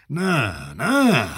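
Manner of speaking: crying out the refusal, rising at the end; tearful no. Acted. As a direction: choke the two noes through tears. Bishop refuses, laughing into tears.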